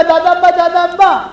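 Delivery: put-on a light child's voice calling, slow; child calling grandpa. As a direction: call out like a little grandchild. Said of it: "ہمارے چھوٹے چھوٹے بچے ہیں نا". (بچے کی طرح دادا کو پکارنا)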